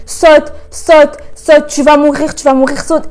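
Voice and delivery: inner voice. Retold or imitated. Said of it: "mon cerveau qui me disait".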